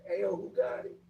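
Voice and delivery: high, loud call through the vent; yelling through a vent. Retold or imitated. Inmate yelling through the vent to find the smoker, high and loud. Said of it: "I hear the guys yelling through the vent".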